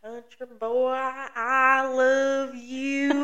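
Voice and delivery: slow, drawn-out meme line; quoting the meme. Retold or imitated. Host quotes an old meme to her co-host, drawn out. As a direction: stretch it like the old Vine. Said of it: "Have you seen that video?".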